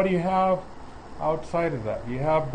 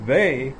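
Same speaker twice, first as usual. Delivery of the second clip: "They" said alone with a falling stress. Shown as a demonstration. Preacher showing the emphatic pronoun, stress on "They". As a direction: lean on the single word "They". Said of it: "it sounds like it's emphatic".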